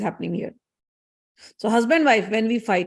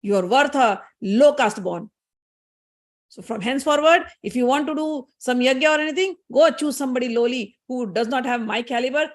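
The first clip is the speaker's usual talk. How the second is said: mildly angry, acted-out put-down; retold wifely scorn, firmly stressed; angry Saraswati; 3 semitones higher than usual. Saraswati dismissing her husband, angry. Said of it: "So Saraswati is very angry".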